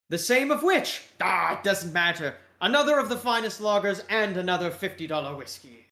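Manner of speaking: breezy British caricature; British accent. Acted. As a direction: order grandly in a British accent. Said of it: "with a British accent".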